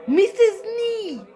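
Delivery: high calling of a name. Pretend. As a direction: call to him from afar. Everyone calls Mister Snee.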